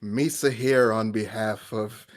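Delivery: slow, measured mock senator's address; Jar Jar Binks. Jar Jar addressing the Senate for his constituents, mock-solemn. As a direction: deliver broken English with drawn-out formality. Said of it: "Him, him speaking for the Senate".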